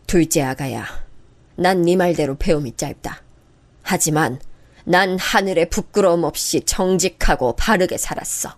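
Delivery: lightly voiced mother-in-law rebuking; grave old mother. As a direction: speak with wounded dignity. Hurt elder speaking gravely.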